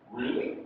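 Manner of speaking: "Really?" starting low and going up; rising intonation. Shown as a demonstration. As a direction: begin "Really?" low, then lift it. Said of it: "It's going up again".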